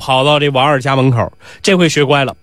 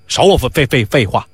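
stammering retort; 3 semitones lower than usual. Acted. Angry Nisi trips over his words.

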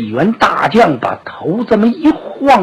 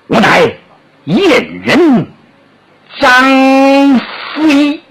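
proud general's announcement; 6 semitones higher, much slower than usual. Acted. Zhang Fei announces his name.

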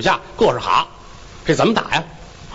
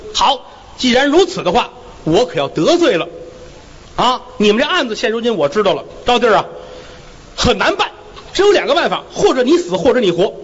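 a slightly raised, officious magistrate's voice; court magistrate; 4 semitones higher than usual. Acted. Magistrate warning the onlookers in the courtroom, officious voice. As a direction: lay down the rules from the bench.

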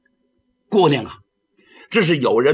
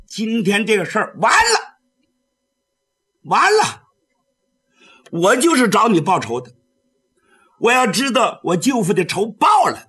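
a hint of a defiant girl, pitched up; a young swordswoman challenging, half angry; the girl dares the Taoist to die for revenge; lightly voiced young girl; 3 semitones higher than usual.

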